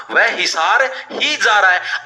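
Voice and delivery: ही pressed in a slow sentence; slow down and lean on ही; stress on ही. Shown as a demonstration. Teacher showing students where the force falls. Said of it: "ही ने इसके ऊपर जोर डाला".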